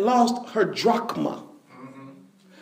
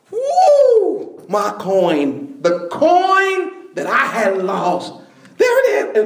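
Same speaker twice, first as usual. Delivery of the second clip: overjoyed; slower than usual. Acted. Woman finding her lost coin, laughing and overjoyed. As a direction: burst out laughing with relief.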